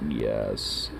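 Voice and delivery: lightly voiced elitist cat; a hint of a snooty lord; haughty cat. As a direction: speak as an aristocrat cat, mock-lofty. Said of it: "now he's all like".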